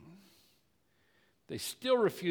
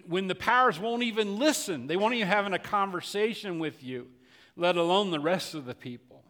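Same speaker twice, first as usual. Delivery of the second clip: loud, raised preaching voice; impassioned pulpit delivery, higher and louder; preaching at full force; 6 semitones higher, 5 dB louder than usual. Acted. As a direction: drive the question home to the congregation. Preacher's rhetorical climax.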